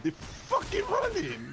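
high-pitched, stretched-out shriek of warning; panicked shout. Real, not acted. Gamer warning teammates about running clowns, panicked shout. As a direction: shriek it in real panic, drawing it out.

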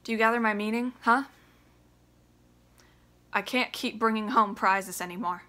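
loud, raw, high shouting; furious son. Acted. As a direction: tear into his father. Biff rages at Willie.

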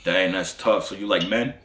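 put-on low voice; deep voice. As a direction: drop the voice down low. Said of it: "I'm finna deep voice activated".

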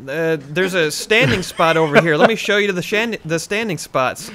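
eager, stumbling show-off; giddy host showing someone around; getting so excited. Pretend. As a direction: trip over the words with playful excitement. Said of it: "I'm getting so excited".

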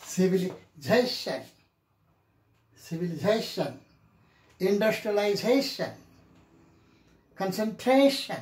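"Civilization, industrialization, concentration" each stressed just before "shan"; stress before "-tion". Shown as a demonstration. Teacher drilling examples for students, stressed syllable before "-tion". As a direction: hit "za" and "tra", then fall on "shan". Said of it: "Whenever there is a shan".

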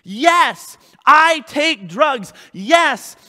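shouted, slow confession of sins; loud confession. Shown as a demonstration. Preacher shouts a sinner's confession to the congregation, loud and slow. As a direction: cry out each yes like a man owning his sins. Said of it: "You have to be honest".

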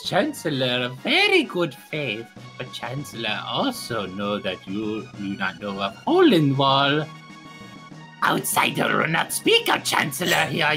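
a low, gruff official; Chancellor voice. Acted. Low-voiced Chancellor character in roleplay.

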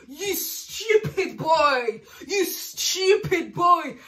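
slow, laughing scold; mock him through laughter; laughing insult. Real, not acted.

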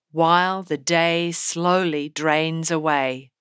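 slow, with every beat drawn out; slow rhythm. Shown as a demonstration. Teacher showing the class how slow the line moves. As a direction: drag "while the day slowly drains away" out word by word. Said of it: "so you can hear how much slower the rhythm is".

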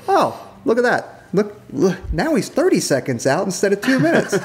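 high, hammed-up excited radio voice; mock urgent excitement. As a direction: ramp up the urgency to hurry the pilots. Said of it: "induce a little bit more, inflection in our voice".

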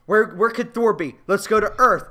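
mock panic looking for Thor; alarmed, rushing to find Thor; acted alarm. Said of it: "And then she's like".

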